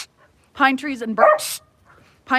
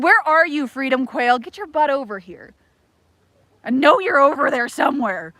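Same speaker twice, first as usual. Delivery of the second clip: calling out; 3 semitones higher than usual. Pretend. Calling for her missing quail viewer.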